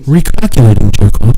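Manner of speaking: lightly voiced navigation system; GPS voice. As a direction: announce a reroute like a GPS. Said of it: "I know exactly what it said".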